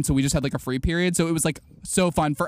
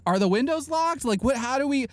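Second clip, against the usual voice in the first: higher, flustered questions; mock panic; 8 semitones higher than usual. Stuck in a school lockdown, flustered high panic. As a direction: scramble for answers in a fluster. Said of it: "And I'm like".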